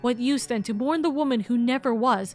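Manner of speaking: soft, slowing, solemn read; understated solemn narration; reflective narration. Acted. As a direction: let the last words fade quietly. Reads reflective narration text.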